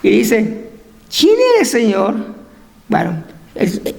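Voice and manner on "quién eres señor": a touch of fright on the first words; fearful. Acted. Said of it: "él temblando y temeroso dijo".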